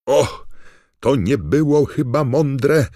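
high, very loud excited alarm; Bagman's excited voice. A narrator's reading. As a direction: commentator crying out at a risky move. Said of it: "podniecony głos Bagmana".

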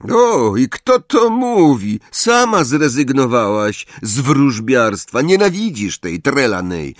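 high, loud, annoyed retort; irritated Ron. A narrator's reading. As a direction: snap back at her, stung. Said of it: "zdenerwował się Ron". (zirytowany Ron, wyższy i głośniejszy)

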